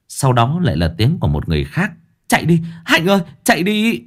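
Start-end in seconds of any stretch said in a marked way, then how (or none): 2.3-4.0 yelling. Acted. Someone yells warning to flee.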